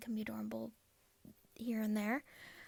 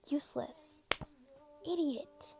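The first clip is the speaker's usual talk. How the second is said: abusive father's insults; 4 semitones higher, slower than usual. Acted. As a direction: spit the words down at the child.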